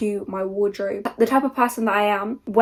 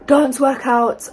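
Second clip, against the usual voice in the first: out of breath; 4 semitones higher, 6 dB louder, much slower than usual. Real, not acted. Out of breath after workout.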